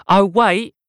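high, loud sudden call; sudden thought. A narrator's reading. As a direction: stop him with a quick thought. Mum remembers something.

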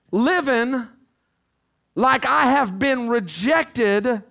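firm, full-voiced preacher's declaration; loud declaration. Believer refusing the wrong voice, loud declaration. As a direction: declare it out loud, line after driving line. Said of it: "it is time to get loud".

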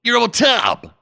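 "Tom" ending on a popped B; hard B closing "Tom"; flamboyantly wrong consonant. Shown as a demonstration. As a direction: say "Tom" as "Tomb" with an audible B. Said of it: "it's gonna be Tom".

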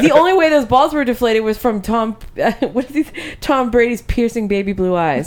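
swooning over him through laughter; laughing gush. Pretend. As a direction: gush about him, giggling. Gushing over Tom Brady, laughing.

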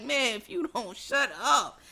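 slow, exasperated retold plea; at wit's end. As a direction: drag it out like someone fed up. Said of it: "he was at his wit's end".

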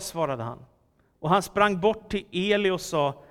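animated, emphatic Bible reading; scripture reading. A narrator's reading. Preacher reads young Samuel's night calling to the congregation, animated scripture reading. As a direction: read the story out clearly with dramatic pauses.

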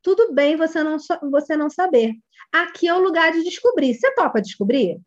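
gentle welcoming reassurance. Shown as a demonstration. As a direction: invite the child to discover. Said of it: "Outra forma de acolher".

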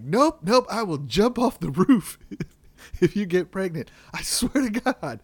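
high, loud hammed-up freak-out; mock panic. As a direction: squeal it like a man losing it over a second baby.

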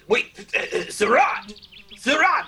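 high, loud excited cry of the name; suddenly thrilled exclamation; excited recognition. Acted. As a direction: blurt it out as it dawns on you.

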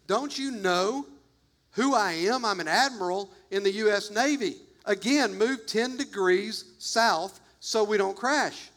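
mildly irritated officer pulling rank, emphatic pauses; irritated admiral. Retold or imitated. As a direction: play a touch of mock indignation. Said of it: "he's getting irritated".

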